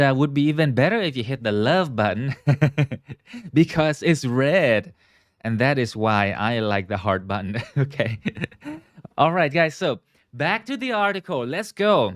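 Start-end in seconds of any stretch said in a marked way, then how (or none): 2.9-9.2 chuckling through a light joke; amused laughing. Real, not acted. Host asking viewers to hit love button, amused laughing. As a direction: let little laughs break up the talk.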